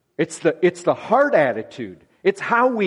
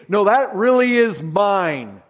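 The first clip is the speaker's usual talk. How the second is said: mock grumpy neighbour, louder and higher on "Stay off that lawn"; lightly hammed-up grumpy homeowner; possessive owner; 3 semitones higher, 4 dB louder, slower than usual. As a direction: shoo them off your lawn, half-playful. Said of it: "We tend to think".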